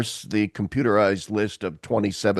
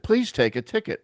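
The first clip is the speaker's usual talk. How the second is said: mock machine voice; 9 semitones higher than usual. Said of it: "the machine said".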